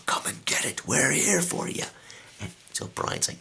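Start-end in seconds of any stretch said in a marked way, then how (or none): 0.1-1.8 thrill seeker's taunt down a cave; yelling down a hole. Acted. Harkis yells down the hole.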